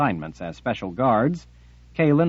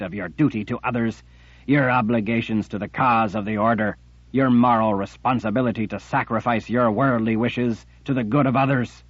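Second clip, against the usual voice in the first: louder accusing emperor's rebuke; angry tyrant; 3 dB louder than usual. Acted. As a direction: scold them like a wrathful master. Jagang berates the sisters.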